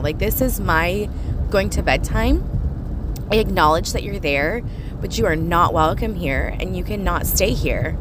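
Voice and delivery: firm, emphatic address; firm boundary-setting. Retold or imitated. Telling spirits they cannot stay at bedtime, firm. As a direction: lay down the rule to unwelcome company.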